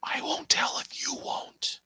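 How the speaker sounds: a soft secretive whisper; conspiratorial whisper. Acted. Conspiratorial aside to co-host.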